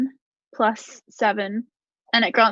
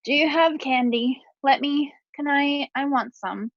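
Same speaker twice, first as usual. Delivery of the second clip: put-on sick little girl voice; 3 semitones higher than usual. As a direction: play a sick kid peppering him with questions. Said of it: "and she goes".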